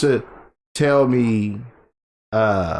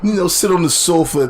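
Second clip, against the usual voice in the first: laughing; 6 semitones higher than usual. Real, not acted. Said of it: "My mom's gonna kill me".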